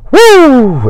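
high whooping exhale of being overwhelmed; exasperated whoo. Real, not acted. Overwhelmed by busy life.

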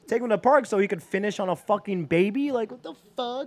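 high, outraged disbelief; incredulous. Retold or imitated. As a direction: scoff at the idea. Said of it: "I was like".

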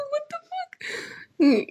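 high, very slow, drawn-out disbelief; stunned disbelief. Retold or imitated. Reacting to the gamers' kiss bit with stunned disbelief. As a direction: stretch it out, totally stunned.

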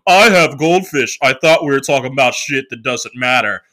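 sarcastic comeback, lightly put on; mock snarky retort. Joke retort to boyfriend excuse.

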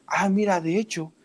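a hint of a girl's sing-song voice as she points out her boyfriend; imitating a girl. Girl's voice retold, higher.

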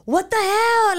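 high, exasperated what the hell; retold flash of outrage; indignant outburst. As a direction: throw it out in disbelief. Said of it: "And I'm like".

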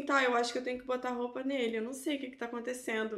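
quick, soft thinking aloud; bewildered muttering. Retold or imitated. Mother left alone with the baby, confused quiet muttering. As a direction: mutter hurriedly to yourself.

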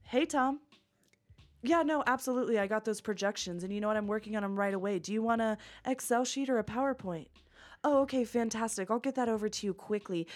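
polished corporate phone voice; upbeat professional phone manner; Harvard voice. Shown as a demonstration. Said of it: "And then my Harvard voice is".

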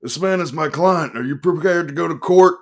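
bully him with legal bluster; aggressive lawyer. A narrator's reading. Attorney threatens the desk man.

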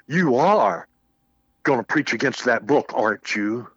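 mildly accusing retold challenge; imitating an upset pastor's pointed question; confrontational. Upset pastor confronting visiting minister in his office, imitated accusingly. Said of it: "He says in this tone of voice".

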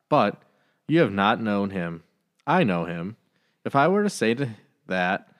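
calm, measured gospel reading; scripture reading. Acted. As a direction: read each verse steadily and reverently. Reads the gospel aloud.

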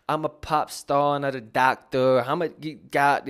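a lightly done careless boss rapper; imitating a rapper in his later style. Vlogger mimics a rapper's later style to a viewer: mock boss swagger. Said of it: "his mafia boss type vibe".

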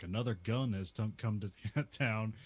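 lightly voiced ominous kid. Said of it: "And he says".

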